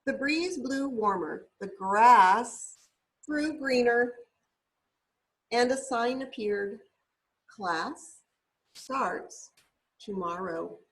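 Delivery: gentle, lilting picture-book reading; storybook read-aloud voice; reading to children. Acted. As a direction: read it like a bedtime story for a little one.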